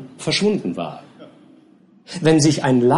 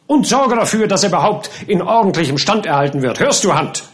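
a somewhat higher, louder, commanding master; stern captain; 5 semitones higher, 3 dB louder than usual. Acted. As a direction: bark orders at the gardener. Captain orders gardener. (herrischer Captain)

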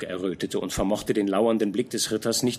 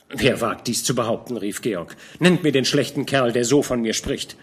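hot-tempered outburst; 4 dB louder than usual. Acted. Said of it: "nur nicht gleich wieder so aufbrausend".

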